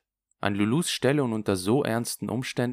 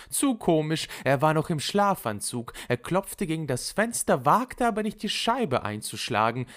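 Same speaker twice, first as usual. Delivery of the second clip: higher, animated gossip; amused, scornful Lulu; 8 semitones higher, 3 dB louder than usual. Acted. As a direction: tell the prank with gleeful emphasis, pitched up. (belustigt und lebhaft erzählende Lulu)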